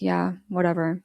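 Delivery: mild, indifferent brush-off; checked out. Retold or imitated. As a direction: retell it as someone who has given up caring. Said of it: "completely checked out".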